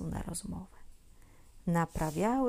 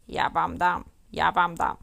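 much louder threatening yell; angry spider shout; 2 semitones lower, 8 dB louder than usual. A narrator's reading. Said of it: "Z daleka krzyczy". (groźny krzyk pająka)

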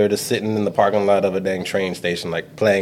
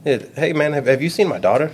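put-on nervous kid; 7 semitones higher than usual. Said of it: "He's like".

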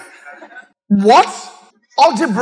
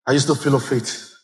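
challenging call. Acted. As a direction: demand an answer. Pastor challenging congregation.

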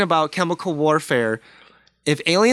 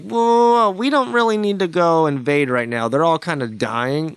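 alien voice. Retold or imitated. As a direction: play a smug watching alien. Voicing aliens watching Earth.

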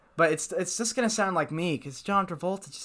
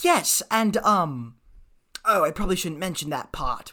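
James Corden. Acted. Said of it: "James Corden".

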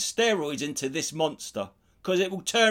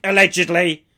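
smug comedian; 7 dB louder than usual. Retold or imitated. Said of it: "still to be saying".

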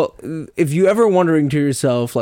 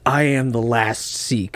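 mock epic hero; 4 semitones lower, slower than usual. Mock movie hero line.

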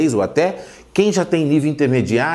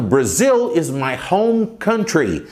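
slow; slower than usual. Shown as a demonstration. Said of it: "Por exemplo".

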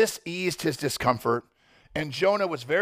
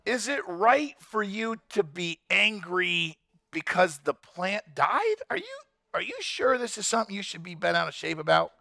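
patient God voice; 2 semitones higher than usual. Retold or imitated. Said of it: "And then God said to Jonah".

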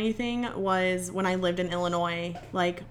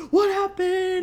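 high, startled voice of an alarmed grandpa; 12 semitones higher, 5 dB louder, slower than usual. Retold or imitated. Grandpa hearing her scream from the pool, high and alarmed. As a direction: play the grandpa jolted into worry.

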